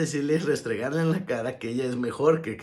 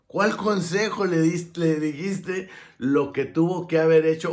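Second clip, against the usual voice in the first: challenging question; 6 semitones higher, 8 dB louder than usual. Acted. Challenging imagined friend's advice.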